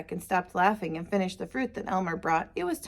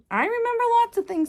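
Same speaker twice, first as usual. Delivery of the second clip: proud boast; 13 semitones higher, 3 dB louder, faster than usual. Acted. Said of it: "said Elmer".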